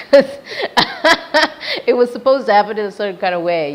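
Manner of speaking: talking through real laughter; laughing. Real, not acted. Laughing at her own story.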